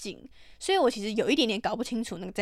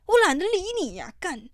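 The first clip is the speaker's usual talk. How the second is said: mock scornful brush-off; 9 semitones higher, 4 dB louder than usual. Mock dismissal of such people.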